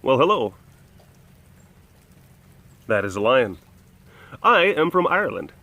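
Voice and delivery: lightly put-on Irish lilt; mock-perfect Irish accent. Shown as a demonstration. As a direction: try a careful demo of an Irish accent. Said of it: "this is a perfect Irish accent".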